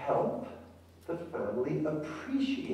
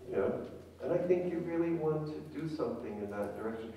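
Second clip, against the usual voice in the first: reassuring therapist; 4 dB quieter than usual. Shown as a demonstration. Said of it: "So I could say to grandmother".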